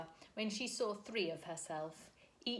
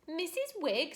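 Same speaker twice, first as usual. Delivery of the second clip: high, thin, indignant squeak; thin offended spinster; thin outraged voice; 9 semitones higher, 6 dB louder than usual. A narrator's reading. Miss Persimmon outraged at the name, thin high voice. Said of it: "in a voice even thinner than herself".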